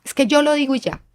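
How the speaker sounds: hammed-up strict mother laying down the law; a hint of a stern mom shutting down the child; bossy mother. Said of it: "como decía mi mamá".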